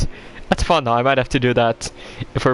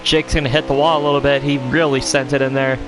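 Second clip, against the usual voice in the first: IMSA commentator; 12 semitones lower, 5 dB quieter than usual. Pretend. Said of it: "I'm speaking like a imsa commentator".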